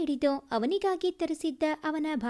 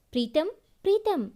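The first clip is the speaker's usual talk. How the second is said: quick, slightly raised call of his name; 3 dB louder, faster than usual. Acted. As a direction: call him twice, hurried. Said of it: "ಎಂದು ಯಾರೋ ಕೂಗಿದ ಸದ್ದಿಗೆ".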